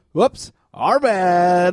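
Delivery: slow, drawn-out fake apology; mock sheepish apology. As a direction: shrug it off lazily. Mocking refs, slow, far timbre.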